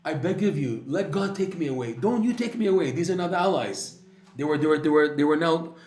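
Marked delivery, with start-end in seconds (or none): 0.0-4.0 high, loud desperate begging; begging plea. Retold or imitated. Woman begging the doctor not to kill her, desperate. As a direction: beg them to let God decide, not you.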